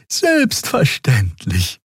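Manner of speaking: slow, high, friendly assurance. A narrator's reading. Xia assuring the officer, slow and friendly. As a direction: reassure her sweetly. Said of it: "versicherte Xia freundlich".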